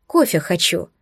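put-on whining like a child; whiny plea. A narrator's reading. Heroine whining from behind Shan, childish whine. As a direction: whine for coffee. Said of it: "законючила я".

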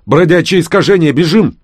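high, loud panicked yell to run; alarmed yell. Acted. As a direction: shout the warning while fleeing. Fleeing danger, yelling. (панический крик)

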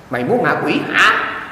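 put-on slow, scolding oneself like a child; drawn-out mock telling-off. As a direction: scold your own greedy mouth. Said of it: "La nó vậy".

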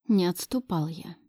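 usual speaking voice

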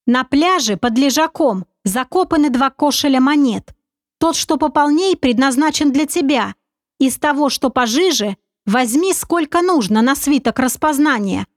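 a hint of a sly confident schemer; sly commander. Narrator voices commander Oleg.

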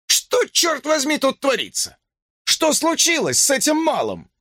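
cop's voice climbing with shock; high alarmed voice. A narrator's reading. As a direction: sound rattled and high. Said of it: "голос звучал на несколько октав выше".

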